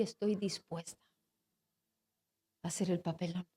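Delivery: hushed, faltering, barely getting it out; struggling to say it. Retold or imitated. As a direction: voice sinking as she fights herself. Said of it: "luchando conmigo misma y sin poder decir". (casi sin voz, luchando por decirlo)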